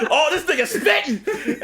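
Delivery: high, slow, drawn-out hype; hyped-up amazement. Retold or imitated. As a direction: stretch it out in mock astonishment. Repeats hyped reaction.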